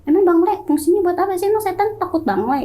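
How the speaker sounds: put-on fed up, challenge the old belief; irritated retort. To the family about bangle, exasperated and fed up. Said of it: "Saya kelewat kesel gitu kan".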